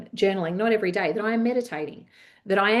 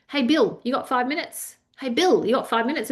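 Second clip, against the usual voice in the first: lightly acted, higher-pitched hail to a colleague; colleagues calling out; 5 semitones higher than usual. Staff interrupting their boss in an open plan office, casually calling out. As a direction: imitate a casual drop-by request, pitched up. Colleagues dropping by Bill's desk.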